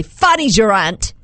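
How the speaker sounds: amateur British accent; light mock-British delivery; attempted British accent. Shown as a demonstration. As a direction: try the phrase as a would-be Brit. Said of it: "say these all with a British accent".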